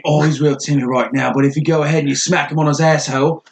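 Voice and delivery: mock Australian wildlife host; joking Australian accent impression. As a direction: narrate like an Australian croc hunter. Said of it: "going all the way Australian on this".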